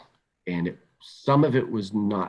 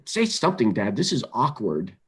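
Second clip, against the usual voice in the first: imitating his son; 3 semitones higher than usual. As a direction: plead like an upset fourteen-year-old, pitch up. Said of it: "He said".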